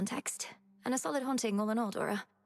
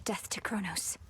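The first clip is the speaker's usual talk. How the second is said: whispered vow. Acted. Oath repeated back.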